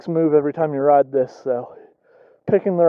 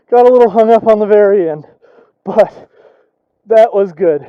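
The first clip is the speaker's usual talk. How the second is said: excited; 3 semitones higher, 7 dB louder than usual. Real, not acted. Elated after the climb.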